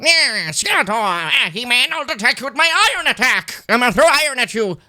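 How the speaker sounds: high, loud hammed-up villain voice; cartoon Skeletor voice. Mocking Jared Leto's Skeletor trailer voice, hammed-up high villain. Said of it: "that voice".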